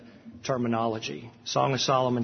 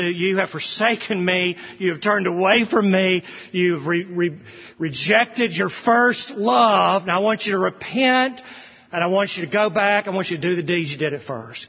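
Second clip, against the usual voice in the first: pleading rebuke; 3 semitones higher than usual. Acted. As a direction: call them back to their first love. Jesus rebuking from Revelation.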